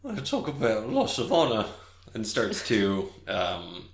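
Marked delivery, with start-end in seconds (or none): 0.0-1.6 John. Acted. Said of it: "he looks down at the straw and he's like".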